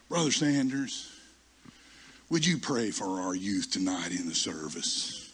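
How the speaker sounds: slow, measured request, dropping low; lightly voiced formal superintendent; solemn church leader. Superintendent asks the retired elder to pray, solemn and slow.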